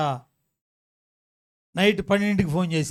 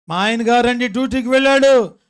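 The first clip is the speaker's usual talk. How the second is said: louder, higher imitation wail; mock wailing; 5 semitones higher, 7 dB louder than usual. Wife telling pastor about her husband, mock wail. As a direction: act out a tearful caller, loudly. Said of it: "ఓ ఏడుతుందంటండి".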